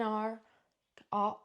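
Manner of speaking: a rolled, burred West Country R on "R"; the letter "R" slipped out with a strong rhotic burr; local West Country R. Real, not acted. Reading a brand name, her local R slips out. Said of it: "you guys just heard me say the R".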